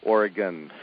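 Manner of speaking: "Oregon" said as OR-uh-gun; "Oregon" with a reduced last syllable; correct local pronunciation. Shown as a demonstration. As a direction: answer with "Oregon" ending like "gun". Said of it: "is it Oregon or Oregon?".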